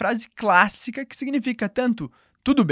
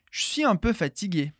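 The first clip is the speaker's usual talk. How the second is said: quick casual "je suis un peu fatigué"; rapid informal delivery; fast everyday speech. Shown as a demonstration. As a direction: run "je suis" together as natives do. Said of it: "de um jeito bem rápido".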